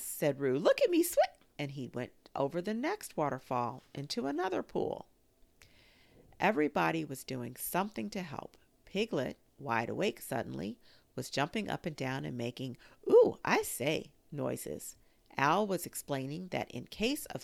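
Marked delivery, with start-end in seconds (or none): 0.6-1.2 high, loud squeaky little voice; a tiny joey showing off; little Roo squeaking with pride; squeaked. A narrator's reading. 13.1-14.1 very high, loud, slow squeal; little Piglet squealing; Piglet's squeak. A narrator's reading. Piglet's excited noises.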